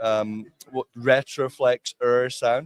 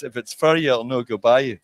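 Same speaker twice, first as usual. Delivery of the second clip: put-on Scottish accent. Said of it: "a Scottish saying is".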